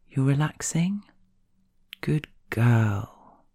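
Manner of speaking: gently lifted question, then slow praise. Retold or imitated. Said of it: "a soft, comforting smile and said".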